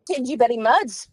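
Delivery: "Tingy Betty Muds" for thank you very much, fast and slurred; mock foreign accent. Shown as a demonstration. Teller gives the room service lady's garbled thanks in a mock accent. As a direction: blur it like a heavy accent. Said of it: "Thank you very much," right?".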